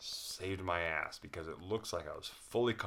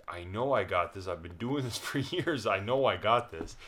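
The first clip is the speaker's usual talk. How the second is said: loud defiant; 3 semitones higher, 6 dB louder than usual. Retold or imitated. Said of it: "It's like".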